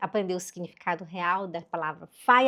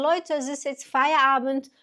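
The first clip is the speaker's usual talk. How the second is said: put-on announcing to kids; 4 semitones higher, 3 dB louder than usual. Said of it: "eu falo pras crianças".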